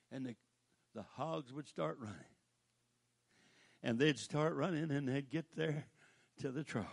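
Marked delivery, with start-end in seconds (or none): none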